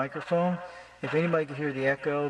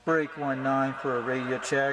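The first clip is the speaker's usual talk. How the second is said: CB radio call; slower than usual. Shown as a demonstration. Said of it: "Use the channel nineteen".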